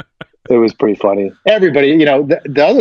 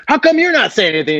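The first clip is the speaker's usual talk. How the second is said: incredulous; 10 semitones higher, faster than usual. Retold or imitated. Mock indignation to colleague.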